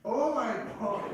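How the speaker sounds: 어이없다는 듯 길게 늘인 탄식; 높고 느리게 끄는 한탄; exasperated oh my God. Real, not acted. Chair gives up on tied vote.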